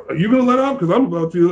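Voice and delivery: high, loud mock exasperation; half-joking plea to let up; exasperated quote. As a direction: act out being fed up with the judges. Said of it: "we're all looking at each other like".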